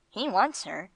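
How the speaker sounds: understated emphasis on "He wants her"; emphatic. A narrator's reading. Gringo answers why his master is marrying, emphatic on "He wants her". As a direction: state "He wants her" firmly, with modest weight. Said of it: "said Gringo emphatically".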